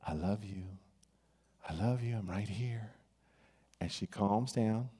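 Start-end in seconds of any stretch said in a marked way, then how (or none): 0.0-2.9 soft hushed whisper; a father whispering I love you to his newborn. Retold or imitated. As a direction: whisper it tenderly to a crying baby. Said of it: "he starts whispering to her".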